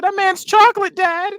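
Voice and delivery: mock little kid. Friend mocking the daughter, high childish voice. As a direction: play a blunt toddler.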